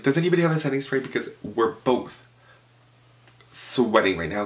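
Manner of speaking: bright, high-pitched excited asking; high bubbly question. Retold or imitated. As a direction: call out to the room, high and eager. Selena asking the room.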